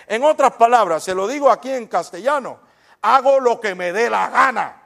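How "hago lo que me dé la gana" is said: voicing God. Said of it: "está diciendo Dios".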